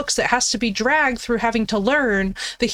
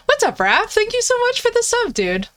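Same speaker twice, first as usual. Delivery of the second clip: excited thanks; 12 semitones higher than usual. Real, not acted. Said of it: "thanking a subscriber".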